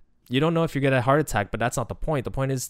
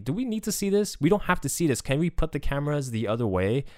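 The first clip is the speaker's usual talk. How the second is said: lightly acted, higher-pitched questioning; imitating online questioners; 5 semitones higher than usual. Viewers online questioning the broadcast's cameras, higher-pitched mild protest. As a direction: voice the viewers' objection, pitched up at first and easing down. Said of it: "people did bring up very good questions online".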